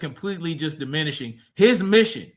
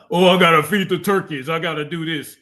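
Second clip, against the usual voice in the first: mocking whine; 7 dB louder than usual. Mocking a rival's excuses.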